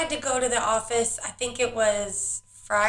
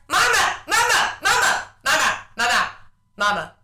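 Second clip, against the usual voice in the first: put-on nagging kid calls; faster than usual. Mother imitating her child calling the moment she looks away. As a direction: pester like a toddler who won't stop. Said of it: "the second I look away".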